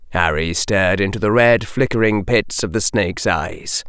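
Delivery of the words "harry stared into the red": ordinary delivery, nothing marked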